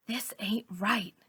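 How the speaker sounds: slow, soft unvoiced whisper. A narrator's reading. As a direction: breathe it out slowly, scared. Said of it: "I whisper".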